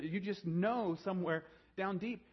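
ordinary talk

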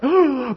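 high, loud imitated gasp of delight; excited mock gasp. Church members spotting a young couple, mock excited gasp. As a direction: gasp like you've spotted treasure.

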